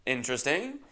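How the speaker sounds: loud oh, then flat interesting; sincere surprise fading; host taken aback. Retold or imitated. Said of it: "And then she just goes".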